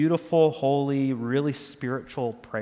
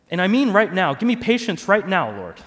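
impatient prayer for patience; 4 semitones higher, 5 dB louder than usual. Acted. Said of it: "let me give some model prayers".

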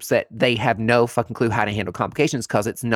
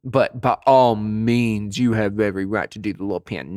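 mock permission; 2 semitones lower than usual. Mocking injectors' entitled claim.

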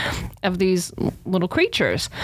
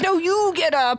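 panicked insistence; 7 semitones higher, slower than usual. Retold or imitated. Retold panicked argument.

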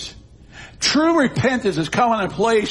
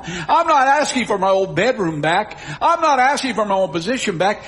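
impassioned pleading; 5 semitones higher than usual. Acted. Acts the son's pleading confession.

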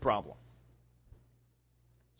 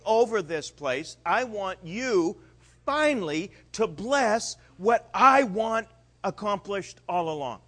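loud, high, pushy would-be king; eager demanding Peter; 4 semitones higher, 8 dB louder than usual. Retold or imitated. Peter demanding his throne from Jesus, loud and eager.

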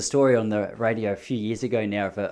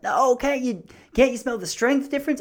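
higher mock stoner voice for the dealer; imitating the dealer; 12 semitones higher than usual. Dealer pushing him to smell the difference, higher mock voice. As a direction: play the eager dealer, pitched up. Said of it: "He's like".

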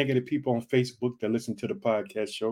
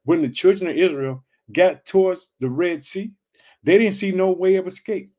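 preaching build; 4 semitones higher, 5 dB louder than usual. Real, not acted. Preacher builds Red Sea story.

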